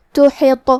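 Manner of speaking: تحط ending in a bounced heavy ط; qalqala on toa. Shown as a demonstration. Teacher demonstrates qalqala on تحط for students. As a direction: shake the final ط of تحط. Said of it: "حرف الطو کو ہلاتے ہوئے".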